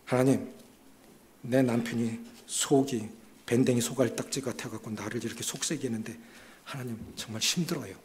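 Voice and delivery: low, soft complaining prayer; quiet lament prayer. Retold or imitated. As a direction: pour out a grievance to God softly. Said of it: "이렇게 원망할 거 있으면요".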